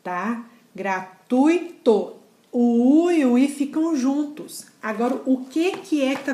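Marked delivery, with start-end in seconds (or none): 0.8-2.2 "Gratuito" said very slowly, syllable by syllable; slow syllable separation. Shown as a demonstration. Teacher separating syllables for the class, slowly. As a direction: stretch out "Gratuito" to show the split. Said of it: "É assim que ela é separada".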